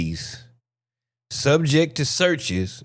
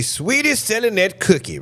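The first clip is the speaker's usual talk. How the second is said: high, singsong quote; teasing high-pitched quote; mock high voice; 9 semitones higher than usual. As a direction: lift the voice up high and tease.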